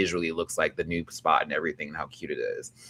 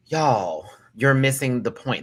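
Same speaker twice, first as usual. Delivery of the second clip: louder, higher insistent reply; emphatic retort; 4 semitones higher, 5 dB louder, slower than usual. Retold or imitated. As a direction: insist they missed it. Retorting to critics.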